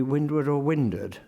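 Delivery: WINDWARD first full, then reduced to "windard"; two alternative pronunciations. Shown as a demonstration. Lecturer weighs Eliot's two readings, windward then windard. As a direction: say windward twice, second time swallowing the W. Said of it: "hesitates as to whether windward would be".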